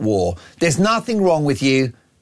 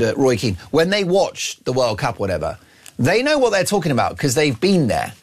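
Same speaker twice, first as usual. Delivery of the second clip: ordinary talk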